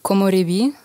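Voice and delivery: Komorebi, said out clearly in Japanese; say the title. Shown as a demonstration. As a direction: spell out Komorebi for the host, syllable by syllable. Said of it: "Wie wird das ausgesprochen?".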